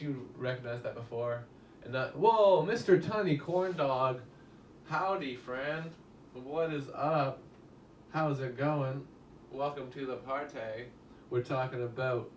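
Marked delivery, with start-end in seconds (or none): 2.2-10.9 slow, drawn-out mock-cheery greeting; hammy party host. Streamer greets a new chat viewer, hammed-up party host. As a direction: roll out the welcome like a cheesy host.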